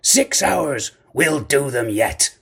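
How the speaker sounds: loud, high-pitched outburst; excited cry. A narrator's reading. Captain springing to his feet, excited cry. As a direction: cry out with sudden resolve. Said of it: "he cried".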